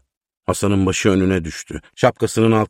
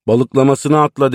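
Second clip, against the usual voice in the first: crowd egging on; 6 semitones higher, 5 dB louder than usual. A narrator's reading. Crowd urges him to dive.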